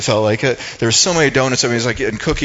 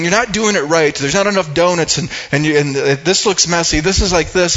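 mock angry manager, pitched higher; retold scolding; 5 semitones higher than usual. Manager scolding young girl in front of customers, mock yell. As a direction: imitate a scolding boss, half-hearted. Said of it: "she starts yelling".

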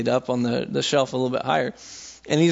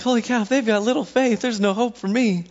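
mock dismay; 7 semitones higher than usual. Mock-despairing reaction to rebuke.

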